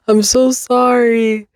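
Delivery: sorry, said slowly through a high giggle; real laugh while apologizing; laughing apology. Real, not acted.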